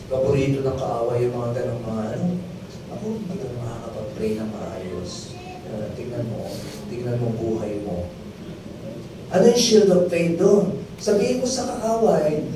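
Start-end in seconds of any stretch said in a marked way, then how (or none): 2.9-8.1 softer, quicker sneering whisper of the enemy; sly enemy taunt. Acted. Preacher voicing the enemy taunting the believer, softer and fast. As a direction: taunt them low and fast like the devil.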